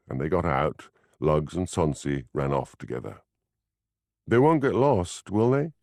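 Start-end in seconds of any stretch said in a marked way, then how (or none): 4.2-5.7 anxiously. A narrator's reading. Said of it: "asked Priscilla anxiously".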